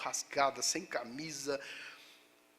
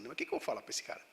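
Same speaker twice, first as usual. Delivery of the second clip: whispered thought; 6 dB quieter, much faster than usual. Retold or imitated. Inner thought before answering policeman.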